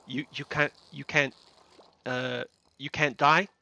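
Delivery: lightly put-on American accent. Retelling Owen's line to Jack, accidental American accent. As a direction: quote it in a casual American accent. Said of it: "why am I doing an American accent?".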